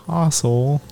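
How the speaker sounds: half-hearted British "Castle"; attempted British accent. Shown as a demonstration. Reluctant friend trying on request, weak British accent. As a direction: copy a British "Castle" tentatively. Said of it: "Say castle".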